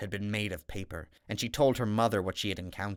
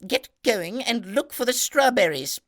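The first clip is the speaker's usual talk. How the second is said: stern stepmother; 12 semitones higher, 8 dB louder than usual. Acted. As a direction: cut her off, every word a threat. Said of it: "the stepmother replied".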